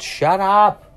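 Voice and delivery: loud and high, fed up with the noise; exasperated shout. Real, not acted. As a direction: snap at the interruption. Announcement interrupts again.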